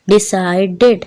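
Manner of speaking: Decided split into syllables, ending in a separate "ded"; distinct "id" ending. Shown as a demonstration. Teacher demonstrating the "id" sound in Decided, distinct ending. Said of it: "ये भी इड की sound दे रहा है".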